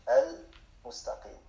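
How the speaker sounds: Al-mustaqim drawn out slowly, syllable by syllable; slow repeat. Shown as a demonstration. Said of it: "teacher says word, then repeats slowly".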